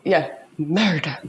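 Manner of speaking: low, drawn-out Scottish "murder"; Scottish accent. Acted. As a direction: say it like a Scottish TV detective. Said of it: "always do it in a Scottish accent".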